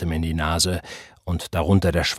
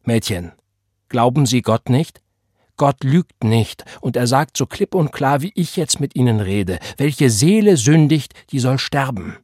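furious preaching; 4 semitones higher, 5 dB louder than usual. Acted. Reverend scolding the drinking girl, loud and wrathful. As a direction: thunder the scripture at her. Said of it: "Wutentbrannt trat er zu ihr".

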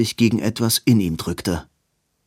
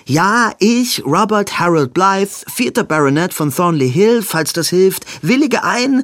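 much higher, louder breathless vow; desperate outcry; 9 semitones higher, 5 dB louder than usual. Acted. Robin gives Edwin his full name, a high desperate cry. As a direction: cry the words out, overwhelmed and eager.

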